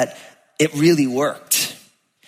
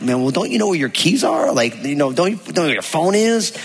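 frustrated plea; 3 semitones higher than usual. Retold or imitated. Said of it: "kind of frustrated pleas".

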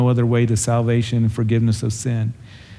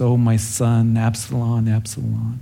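weeping. Retold or imitated. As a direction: let the name die away in grief. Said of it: "David begins to weep".

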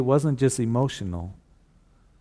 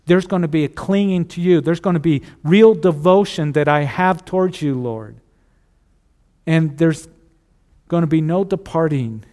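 fervent prayer; 3 semitones higher, 4 dB louder than usual. Real, not acted. Preacher praying aloud to the Lord, fervent and loud. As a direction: pour it out to the Lord.

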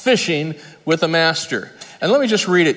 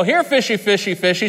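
fish call; 3 semitones higher than usual. Shown as a demonstration. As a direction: coax the fish up. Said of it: "and you go".

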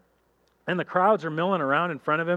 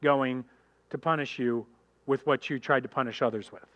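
stern God; 4 semitones lower than usual. Retold or imitated. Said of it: "God's going like".

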